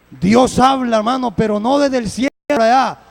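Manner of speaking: preacher raising his voice to the congregation; preaching loud. Acted. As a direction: ring it out from the pulpit.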